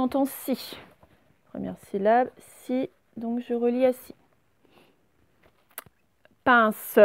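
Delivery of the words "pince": PINCE loud, as PIN-SE; teacher splitting PINCE in two; split into syllables. Shown as a demonstration. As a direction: sound out PINCE with a voiced final SE. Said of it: "Dernière syllabe".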